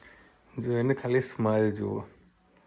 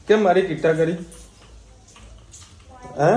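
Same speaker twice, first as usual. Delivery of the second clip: put-on baby talk; 5 semitones higher, 4 dB louder than usual. Mock hurt toward toddler.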